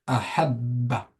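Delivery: slow, careful "ahabba" for learners; slow reading. Shown as a demonstration. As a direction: read "ahabba" out slowly, holding the double b. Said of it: "Je vais les lire moi doucement". (« ahabba » lu doucement, lentement)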